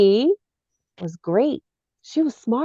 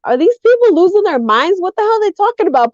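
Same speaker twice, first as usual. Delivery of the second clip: acted disbelief; 7 semitones higher, faster than usual. Retold disbelief at online posters.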